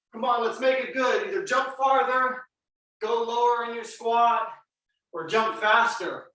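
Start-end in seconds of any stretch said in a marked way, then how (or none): 1.3-6.2 coach shout. Real, not acted. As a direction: push the class from the front. Coach pushes class mid-set.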